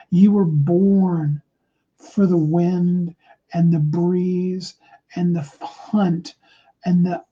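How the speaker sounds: slow, deliberate motivational cadence; inspirational speech. Acted. Speaker addressing listeners as eagles, slow and inspirational. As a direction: lay each phrase down slowly to inspire.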